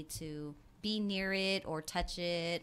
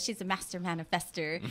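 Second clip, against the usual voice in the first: light, laughing imitation of a friend; imitating a friend. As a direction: say it cutely, like the friend. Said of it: "that's the way she says it".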